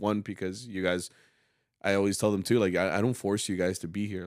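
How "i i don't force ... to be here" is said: usual speaking voice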